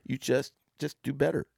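high, fast teasing reassurance; lightly hammed-up, coaxing a kid; dad mimicking his own gentle correction, pitched high; mock soothing dad. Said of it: "I was just like".

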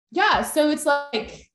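fighting back tears, then hurrying on; steady voice with shaky moments. Real, not acted. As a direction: voice catching with emotion. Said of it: "I get a little emotional".

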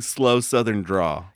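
slow, lightly drawled Southern accent. Shown as a demonstration. Naming the actor's accent, slow Southern drawl. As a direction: stretch it out like a lazy Southern drawl. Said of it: "When you say".

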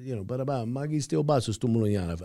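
put-on quick Italian street accent; Italian tough guy. Actor quoting his pilot line, Italian tough-guy voice. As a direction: rattle it off like a wiseguy. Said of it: "I go".

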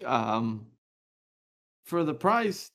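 halting stand-in co-host impression; Elijah impression. Host covering alone for his co-host, halting impersonation. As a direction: pretend to be the missing co-host, haltingly. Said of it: "pretend to be Elijah".

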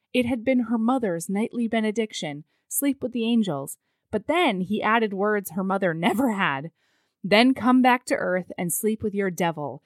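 measured read-aloud narration; story reading. Acted. Reading a book's bedtime scene to a co-host, measured narration. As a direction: read it like a romance audiobook passage. Reads a passage from the book aloud.

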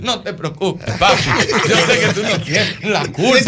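mock-tearful reassurance with wavering pitch; imitated crying child. Boy reassuring his father, mock crying. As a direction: forgive him through pretend sobs. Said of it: "Salimos los dos dando gritos".

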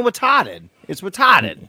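broad Boston vowels on "retarded", R softened; Boston accent. Retold or imitated. Co-host reminding him of his bit, Boston accent. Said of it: "that was Boston".

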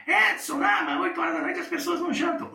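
high, fast whiny objection from an imagined listener; a listener interrupting, high and quick; mock objecting listener. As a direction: squeak out a cheeky protest.

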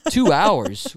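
high, loud echo of disbelief; mock disbelief. Customer hearing about a two-hour wait, mock disbelief. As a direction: balk loudly like an incredulous customer.

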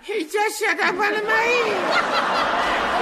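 put-on slow, high, childish; silly high voice.

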